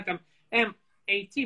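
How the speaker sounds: M A T spelt letter by letter; sounding out words. Shown as a demonstration.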